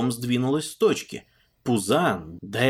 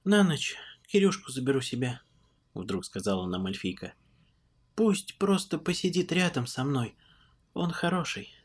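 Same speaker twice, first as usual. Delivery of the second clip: gentle, quiet elf woman; softly voiced old elf; christmas elf; 3 semitones higher, 3 dB quieter than usual.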